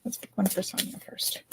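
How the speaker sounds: half-whispered aside while choosing; hushed self-talk. Real, not acted. Card reader picking a card for a client, half-whispered. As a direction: say it under your breath.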